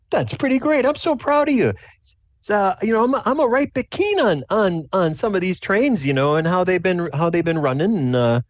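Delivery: high-pitched, rambling dad voice; proud, keen dad. Acted. Dad praises son and talks trains, proud dad voice.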